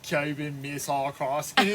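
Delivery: playful Australian rendition, lifting at the end; Australian accent. Shown as a demonstration. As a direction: give it Australian vowels, ending on a rise. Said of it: "in an Australian accent".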